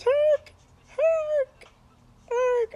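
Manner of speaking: high, loud repeated call of Herc, falling each time. Retold or imitated. Girlfriend spots him in town at night, calling his name out loud.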